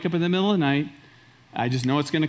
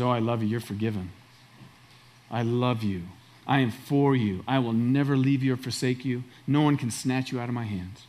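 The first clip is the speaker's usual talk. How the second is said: tender God voice; 4 semitones lower, 3 dB quieter than usual. Acted. Pastor voices God's loving reply.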